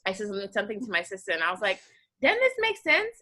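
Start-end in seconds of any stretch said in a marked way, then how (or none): 2.2-3.2 put-on Southern accent slipping out. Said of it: "a little Southern thing".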